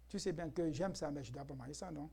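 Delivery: hushed, low-pitched gentle protest; retold low voice. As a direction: retell a quiet reply, voice sinking. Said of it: "je parle à voix basse, hein".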